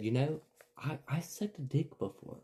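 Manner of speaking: soft, quiet reenacted admission; quietly blurted secret, acted out; hushed confession. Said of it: "I looked at my Aunt Megan and I said".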